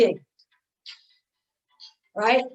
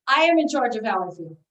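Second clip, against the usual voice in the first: firm statement. Shown as a demonstration. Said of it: "say the whole sentence".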